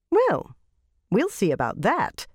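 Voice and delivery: sceptical queen musing; queen's voice. Acted. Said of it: "thought the old queen".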